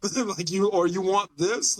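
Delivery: mock-baffled order-taker checking; a touch of acted bewilderment; confused employee. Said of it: "imagine being an employee".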